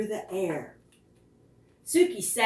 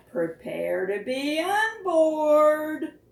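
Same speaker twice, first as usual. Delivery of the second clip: showy Barry; 6 semitones higher, slower than usual. Acted. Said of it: "said Barry".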